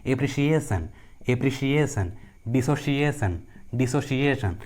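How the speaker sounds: "एप्रिसिएशन, डिसोसिएशन" with sh for the C; C pronounced as sh. Shown as a demonstration. Teacher giving examples of the third rule, careful sh demonstration. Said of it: "सी का उच्चारण श होता है".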